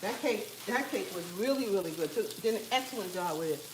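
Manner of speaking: talking while chewing food; words round a mouthful, chewing; chewing noisily. Real, not acted. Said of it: "I'm sorry I'm eating".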